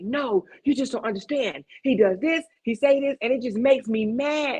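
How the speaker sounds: high, pleading whine; arguing back at the counselor, high and whiny; mock whiny protest. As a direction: protest like a stubborn younger self. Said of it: "And I'm like".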